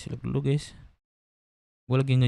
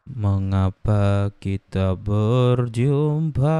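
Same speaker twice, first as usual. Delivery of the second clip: slow deep voice; much slower than usual. Pretend. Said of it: "Beda, Bro".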